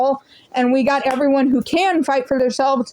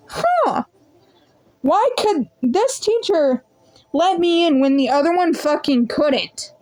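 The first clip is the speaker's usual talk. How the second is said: puzzled; 2 semitones higher than usual. Retold or imitated. Inner thought, puzzled.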